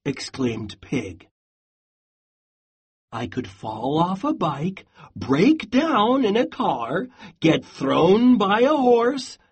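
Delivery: storybook read-aloud with voiced animals; lively picture-book narration; reading to children. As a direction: read it like a bedtime story for a class. Teacher reads picture book aloud.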